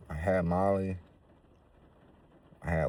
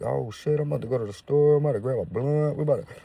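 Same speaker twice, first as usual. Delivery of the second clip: higher, louder rush of relief; hyped; 8 semitones higher, 5 dB louder than usual. Retold or imitated. Telling his friend he feels better, higher excited rush. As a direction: bounce back up eager to go.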